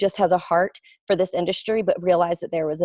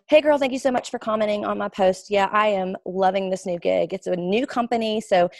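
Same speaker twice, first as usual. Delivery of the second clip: demo sales message. Shown as a demonstration. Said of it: "So I'll just say".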